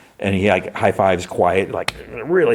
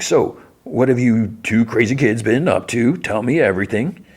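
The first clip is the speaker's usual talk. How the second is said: higher, hammy chummy voice; Sweet Tooth; 5 semitones higher than usual. Retold or imitated. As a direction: play the nosy old pal, pitched up. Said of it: "Sweet Tooth is like".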